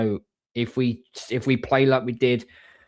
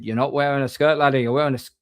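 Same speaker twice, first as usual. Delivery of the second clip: lightly put-on Scottish accent; poor Scottish accent; 3 semitones higher, faster than usual. Bloke in the bar correcting the friend, poor Scottish accent. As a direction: attempt a mild, clumsy Scottish accent. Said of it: "That was the poorest Scottish accent".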